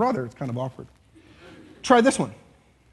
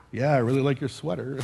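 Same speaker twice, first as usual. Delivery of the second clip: lower, dry mock compliment; sarcastic; 4 semitones lower than usual. Shown as a demonstration. You look at somebody's sweater and fake a compliment, sarcastic. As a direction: say it insincerely, as if you mean the opposite. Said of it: "there is something called sarcasm".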